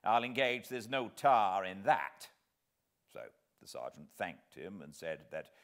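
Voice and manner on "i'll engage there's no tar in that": louder, higher sharp retort; sharply. Acted. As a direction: cut in sharply. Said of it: "said sharply".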